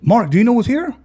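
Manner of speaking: uncle on the phone. Retold or imitated. Uncle calling from the dream, high loud question. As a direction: tease him with the big news.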